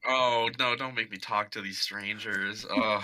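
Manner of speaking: groaning, drawn-out reluctance; mildly whiny protest in character; reluctant dread. Acted. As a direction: balk at it with an exasperated groan.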